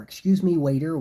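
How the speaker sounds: calling a waiter. Shown as a demonstration. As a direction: call the waiter over politely across the room.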